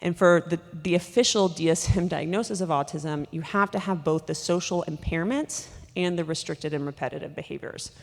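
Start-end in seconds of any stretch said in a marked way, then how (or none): 3.3-7.9 panting between words; out of breath. Real, not acted. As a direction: talk while short of breath. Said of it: "Sorry, I'm panting".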